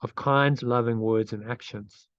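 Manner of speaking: meditative phrase-by-phrase reading, long pauses; slow affirmation reading. Real, not acted. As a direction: lead a repeat-after-me affirmation, unhurried. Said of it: "so I'll read it slowly".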